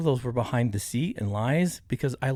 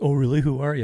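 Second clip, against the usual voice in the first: put-on snotty, snide tone; 4 dB louder than usual. Retelling own reply to the fiancée's claim, imitating own snotty retort. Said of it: "I'm trying to be snotty".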